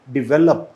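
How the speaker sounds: डेवलप said as di-VEL-up, short i, stress on VEL; slow model word डेवलप with the vowel dropped at the end, di-VEL-up; teacher's model pronunciation. Shown as a demonstration. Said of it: "इसे बोलते हैं डेवलप".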